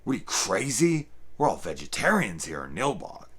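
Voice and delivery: shop owner voice. Retold or imitated. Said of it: "the shop owner who's like".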